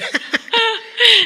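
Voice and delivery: bright high burst of laughter. Real, not acted. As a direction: crack up at the joke. Laughs at own joke.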